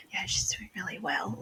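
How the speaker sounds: hushed whisper among the helpers. Retold or imitated. Birth helpers whisper about the labouring mother, hushed. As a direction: murmur it under your breath. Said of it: "whispering around".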